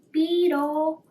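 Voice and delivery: high loud call of the name. Acted. Sparrow calls out to the sleeping beetle, loud. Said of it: "once again said".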